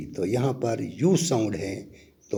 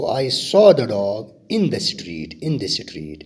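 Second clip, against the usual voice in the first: slow model sentence; 3 dB louder, much slower than usual. Shown as a demonstration. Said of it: "ऐसे भी हम लिख सकते हैं".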